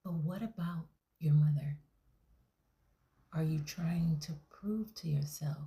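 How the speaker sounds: whispered counselling voice; therapist whisper. Acted. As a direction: hush every word like a calming counsellor. Therapist whispers throughout session.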